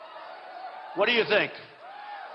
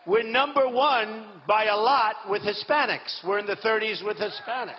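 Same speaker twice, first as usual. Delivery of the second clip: rally shout. Real, not acted. Rally boast.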